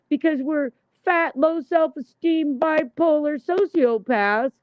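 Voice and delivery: high sarcastic mock, slowing at the end; mocking gossip voice. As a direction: ham up the catty gossips plotting. Mocking gossiping rivals' scheming.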